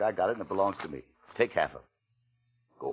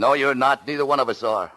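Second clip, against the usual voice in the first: firm refusal; 7 semitones higher, 6 dB louder than usual. Acted. Refusing the liver dinner.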